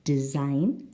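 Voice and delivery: "design" stressed on the second syllable. Shown as a demonstration. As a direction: lean on the last syllable of "design". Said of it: "the second syllable".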